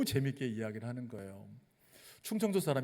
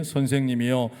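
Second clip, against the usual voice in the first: loud reading of 선생님이여; 9 dB louder than usual. Shown as a demonstration. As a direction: call out 선생님이여 in full voice with the congregation. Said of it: "같이 읽어볼까요".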